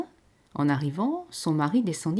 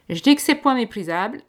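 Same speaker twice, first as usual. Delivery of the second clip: weighty, louder pronouncement; sententious; 6 semitones higher, 10 dB louder than usual. A narrator's reading. Peasant husband giving his verdict, sententious. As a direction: pronounce it like a village sage. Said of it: "d'un ton sentencieux".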